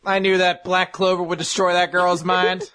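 mock South Carolina accent; Southern neighbour. Neighbour outside the window judging the host, mock Southern accent. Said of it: "that's why they sound like that".

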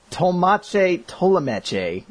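"Tolmache" then "Tolomeche", drawn out; "Tolomeche" in four slow syllables; Tolmache Tolomeche, slow, each part different. Shown as a demonstration. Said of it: "Both parts of the double-barreled surname pronounced differently".

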